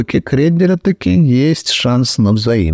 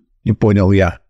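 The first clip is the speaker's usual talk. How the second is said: ordinary delivery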